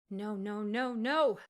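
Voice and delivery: growing from urgent to a high, loud scream; panicked no rising into a loud scream; building scream. A narrator's reading. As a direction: start pleading, end screaming no. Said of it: "she screamed in her head".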